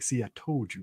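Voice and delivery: low, mumbled, cigarette between lips; cigarette in mouth. Shown as a demonstration. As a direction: talk around a cigarette. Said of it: "You got to have the cigarette in your mouth like".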